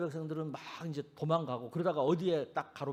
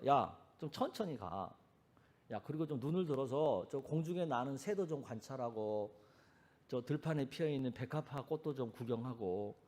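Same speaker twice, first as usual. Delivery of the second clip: gentle slowing down; 4 semitones lower, 7 dB quieter than usual. Retold or imitated. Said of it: "예수님 뭐라 그러세요". (천천히 다정하게 타이르는 말투)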